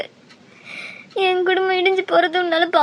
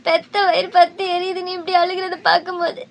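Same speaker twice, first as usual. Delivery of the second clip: tearful. Acted. Mother sees son weeping.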